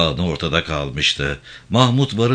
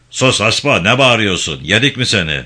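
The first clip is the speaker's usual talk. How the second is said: angry silencing; 3 semitones higher, 5 dB louder than usual. Acted. Chief silences the sick woman.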